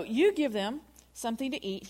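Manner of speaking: "You" lifted above the rest; emphatic "You", then easing down; stress on you. Retold or imitated. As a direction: put the weight on the opening "You". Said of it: "a lot of emphasis on the word you".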